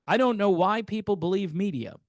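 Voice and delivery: lightly put-on British accent; a touch of British accent. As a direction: quote him in mock British. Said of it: "said that in a British accent".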